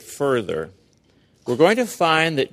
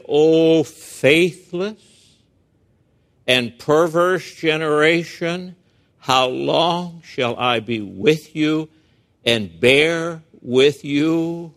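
stern rebuke; slower than usual. Acted. Jesus rebuking his disciples.

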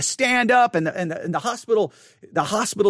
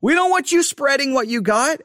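firm; 6 semitones higher, slower than usual. Retold or imitated. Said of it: "we were like".

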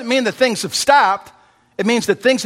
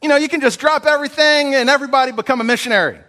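imagined Peter, mock; 6 semitones higher than usual. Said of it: "you might expect Peter to say".

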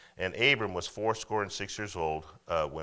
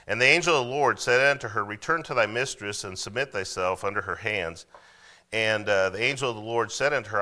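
full-voiced King James reading, a little louder; scripture reading; 4 dB louder than usual. Pastor reading Genesis to the church, loud and measured. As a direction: read the verse out to the congregation. Preacher reads scripture aloud.

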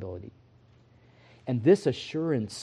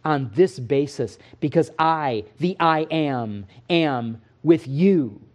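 voice of God; 3 semitones higher, 4 dB louder than usual. Acted. Preacher voicing God to the weary, a building promise. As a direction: build a steady promise, line by line. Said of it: "And he says".

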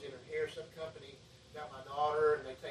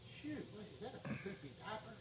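mock disgust; 6 semitones higher, 8 dB quieter than usual. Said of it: "You know what God say?".

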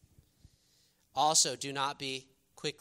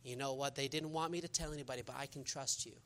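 confidential gossip tone; 9 dB quieter than usual. Retold or imitated. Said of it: "I said".

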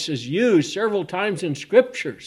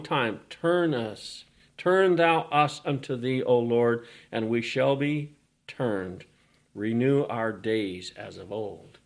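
scripture reading; 3 semitones lower than usual. Acted. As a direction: read the old words low and reverent. Preacher reads the psalm aloud.

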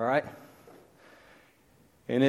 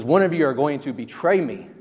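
said flat out and firm, a bit louder; blunt statement; 3 semitones higher, 6 dB louder than usual. Retold or imitated. Jesus telling his disciples at supper, blunt and firm. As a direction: drop it on them like a bombshell. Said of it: "he says this very blunt statement".

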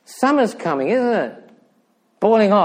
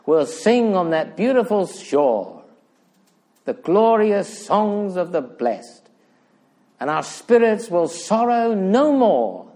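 exalted preaching; 2 semitones higher than usual. Real, not acted. Preacher proclaiming the blessed and glorious day, exalted preaching. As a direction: build to a soaring peak and come down gently.

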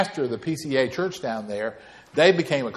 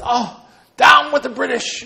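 loud, high mock battle cry; hammed-up triumphant yell; Dave's rallying cry; 12 semitones higher, 9 dB louder than usual. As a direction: shout it like a comic convert to the cause. Acts friend's comic rallying cry.

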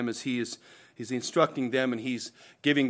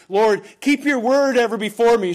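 louder, higher voicing of a prayer; earnest plea; 7 semitones higher, 6 dB louder than usual. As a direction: plead aloud as the psalmist. Voicing the psalmist's great concern in prayer.

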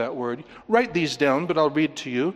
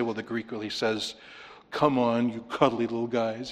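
mock gentle; 4 semitones lower, 3 dB quieter than usual. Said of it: "I'm not gonna say".

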